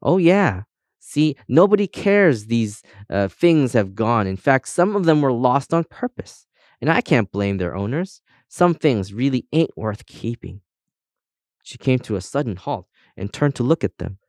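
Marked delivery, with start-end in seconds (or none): 0.0-10.6 lifted, knowing guide voice; gossipy compass guide. Acted. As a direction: confide the dangers with relish, higher at the start.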